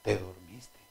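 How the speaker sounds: wife asking. Retold or imitated. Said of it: "Mi esposa".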